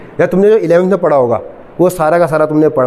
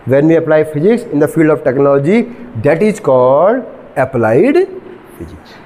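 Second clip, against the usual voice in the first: slow, drawn-out lecture definition; slow dictation; much slower than usual. Shown as a demonstration. Teacher giving students a definition of applied physics, slow dictation. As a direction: stretch each phrase out for note-takers.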